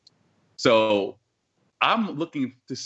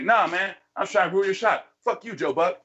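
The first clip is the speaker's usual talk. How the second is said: mock ruining guy; 7 semitones higher than usual. Pissing guy voiced.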